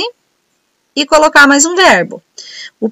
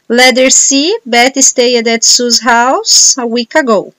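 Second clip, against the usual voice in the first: slow, careful answer reading; slow dictation; much slower than usual. Shown as a demonstration. Teacher reading the answer key to students, slowly. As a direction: read each sentence out slowly for the class.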